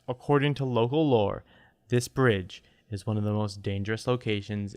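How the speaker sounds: calm radio reporter read; news read. Shown as a demonstration. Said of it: "give us a normal reading".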